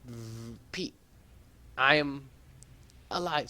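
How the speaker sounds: a distant garbled transmission; faint radio voice. Acted. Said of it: "So she's probably saying".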